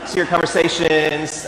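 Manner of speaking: usual speaking voice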